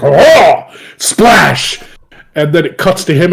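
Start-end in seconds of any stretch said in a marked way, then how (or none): 0.0-1.8 loud, high wail of a flailing swimmer; mock cry of the swimmer. Retelling the anime swimmer diving in, hammed-up cry. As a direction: howl it like a goofy cartoon character. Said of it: "He's like".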